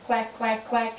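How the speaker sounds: duck quack. Shown as a demonstration. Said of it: "What's the ducky say?".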